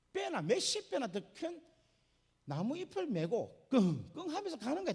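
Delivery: usual speaking voice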